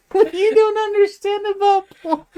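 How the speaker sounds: high, laughing mock lecture; mock condescending. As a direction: parrot her tone, cracking up. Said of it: "the way you said it".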